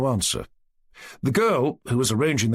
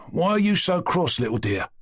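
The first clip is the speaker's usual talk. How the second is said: good-natured; 7 semitones higher than usual. A narrator's reading. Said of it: "he said good-naturedly".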